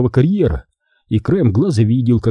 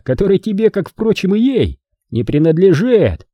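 sneering taunt; 8 semitones higher than usual. Acted. Manfred taunts Charlie.

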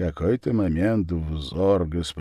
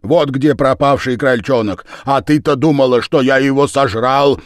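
Lizzie's voice; 5 semitones higher, 8 dB louder than usual. A narrator's reading. Lizzie's raised voice in story.

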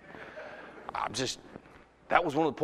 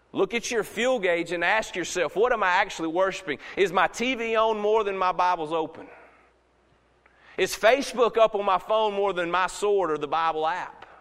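raised, insistent preaching voice; forceful challenge; 2 semitones higher than usual. Real, not acted. Preacher urges self-examination in church, forceful challenge. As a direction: press each question on the listeners.

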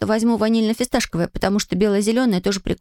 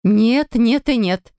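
louder no, no and no; mother flatly refuses the father; firm loud refusal; 4 dB louder, much slower than usual. Acted. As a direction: shut it down hard. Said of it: "закричала мама".

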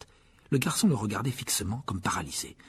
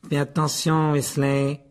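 raised, scornful warning; contemptuous; 3 semitones higher, 4 dB louder, slower than usual. Acted. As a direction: warn him with open disdain. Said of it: "répliqua Malfoy d'un ton méprisant". (avertissement méprisant)

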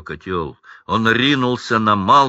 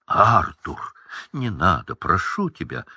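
pleading; 2 semitones lower than usual. Acted. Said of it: "умоляла миссис Уизли".

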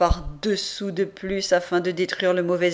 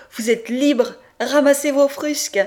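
loud, raised-pitch order; brisk raised voice of a jailer; guard's announcement; 6 semitones higher, 6 dB louder than usual. A narrator's reading. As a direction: call out the good news as a command. Translating the guard's shouted order.

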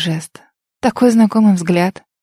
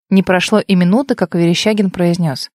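plain reading voice

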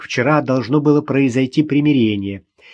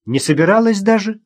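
smirking; 7 semitones higher than usual. A narrator's reading. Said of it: "усмехнулась Маша".

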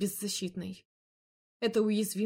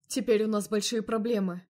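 louder, grim male voice; firm man's voice; 2 semitones higher, 5 dB louder than usual. Acted. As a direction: state the trouble firmly. Andrey's voice.

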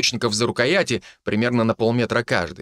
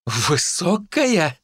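amused; 7 semitones higher, much slower than usual. Acted. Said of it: "В голосе Живилы послышался смех".

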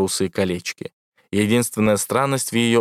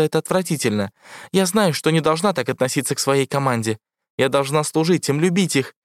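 бархатный голос ИИ; 8 semitones higher than usual. A narrator's reading. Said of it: "посетовала Эвредика".

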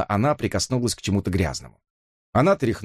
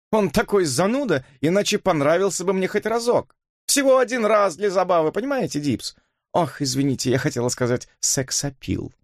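much higher, playful mockery; teasing Elisa; 9 semitones higher than usual. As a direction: tease the old man. (игривая насмешка, голос выше)

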